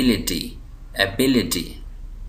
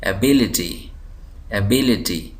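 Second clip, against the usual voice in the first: एबिलिटी with बि pressed, then falling; stress on BI; slower than usual. Shown as a demonstration. Teacher asks students to spot the syllable, stressed BI in एबिलिटी. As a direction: lean on the second syllable बि in एबिलिटी. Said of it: "दबाव दे के पढ़ रहा हूँ".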